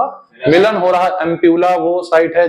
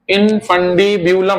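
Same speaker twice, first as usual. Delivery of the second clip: syllable by syllable; much slower than usual. Shown as a demonstration. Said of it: "क्या नाम है?".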